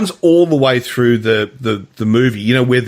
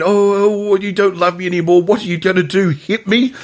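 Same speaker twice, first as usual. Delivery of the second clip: higher-pitched mock lovers' complaint; theatrical hissy fit; 5 semitones higher than usual. Imitating Albin goading his partner, mock hissy fit. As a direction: play the wounded diva, lightly hammed up. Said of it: "another one of his hissy fits".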